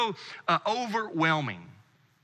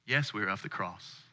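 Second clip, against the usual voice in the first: low, unsure murmur; hesitant and quiet; 9 semitones lower, 8 dB quieter than usual. Retold or imitated. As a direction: answer tentatively, under the breath. Hesitant answer to stranger.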